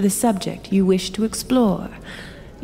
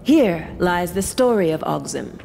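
story narration. Acted. Keeper begins reading the tale.

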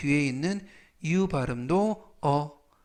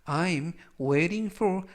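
very slow; much slower than usual. Shown as a demonstration. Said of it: "즉".

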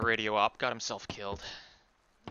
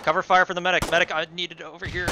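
raised voice calling across the battlefield; urgent shout; 4 semitones higher, 4 dB louder than usual. Real, not acted. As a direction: call out over the gunfire. Calling for cover fire.

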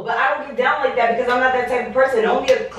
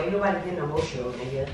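denying emotion; 7 semitones lower, 9 dB quieter, faster than usual. Acted. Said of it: "gonna get emotional".

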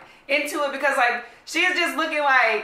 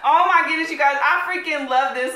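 excited; 2 semitones higher, 5 dB louder than usual. Real, not acted. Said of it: "I'm just so excited".

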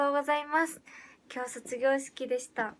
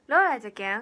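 Hiroshima dialect; 3 semitones lower, 7 dB louder, faster than usual. Pretend. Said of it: "広島弁タイムスタートです".

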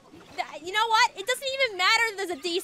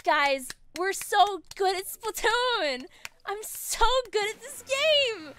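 slow boast; 4 semitones higher, slower than usual. Real, not acted. Boasting after win.

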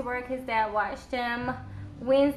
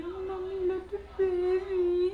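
tender; 4 semitones higher, slower than usual. Real, not acted. Mother cooing to infant.

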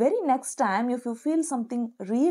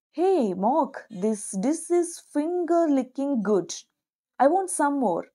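eager compliment; 4 semitones higher, slower than usual. Pretend. Complimenting friend, higher.

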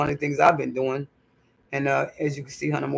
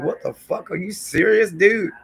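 indignant quote; 5 semitones higher, 4 dB louder than usual. Retold or imitated. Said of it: "I was like".

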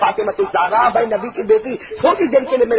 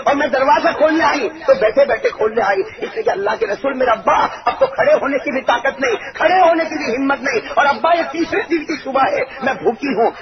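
higher, pleading, on the edge of tears; tearful plea; 5 semitones higher than usual. Acted. Preacher voicing Fatima to her father, half-crying plea. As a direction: let the daughter's hunger break through. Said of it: "روتے روتے کہا".

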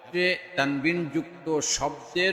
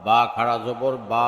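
final "বা" held long; drawn-out vowel. Shown as a demonstration. Teacher demonstrating khara jabar, long "বা". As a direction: stretch the last "বা" for one alif. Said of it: "একালিপ টেনে পড়তে".

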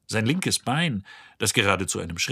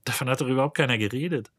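nervous mutter; 4 semitones higher, much faster than usual. Acted. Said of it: "murmelte Arthur nervös".

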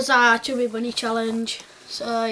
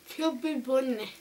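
cheeks stuffed full; 5 dB quieter than usual. Real, not acted. Chubby bunny challenge, mouth stuffed.

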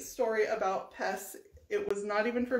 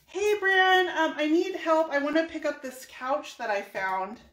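lightly voiced sister, higher and louder at first; sister on phone; 5 semitones higher, 3 dB louder than usual. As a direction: open high and loud, easing down. Voicing her sister phoning for help.

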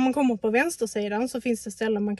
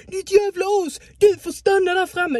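loud, higher mock of a man's yelling; mocking angry man; 8 semitones higher, 8 dB louder than usual. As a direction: throw his insult back, imitating him. Imitates man shouting insults. (härmar gubben som skriker)

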